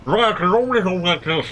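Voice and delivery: talking with a numbed tongue; tongue pressed up to the roof of the mouth. Shown as a demonstration. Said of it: "not the correct way to talk while your tongue is numbed".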